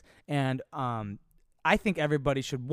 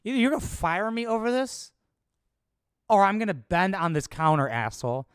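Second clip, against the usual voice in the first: loud, higher mock confrontation; retold defiant shout; 5 semitones higher, 4 dB louder than usual. Worker retelling his ultimatum to the boss, loud mock defiance. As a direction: hurl it at the boss, half-acted.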